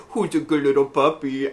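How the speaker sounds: lightly cooed talk to a puppy; pet talk. Acted. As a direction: fuss over a little dog. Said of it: "things I say to the cat and the dog".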